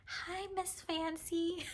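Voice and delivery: high, soft sing-song hello; sweet greeting. Retold or imitated. Imitating the vendor greeting her by nickname, high and sing-song.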